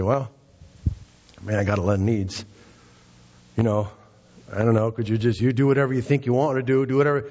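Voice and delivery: hesitant mock rambling, speeding up; imagined vague request. Imagined Bartimaeus dithering before Jesus, mock vagueness. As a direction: waffle haltingly, then hurry it along. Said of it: "Bartimaeus didn't say".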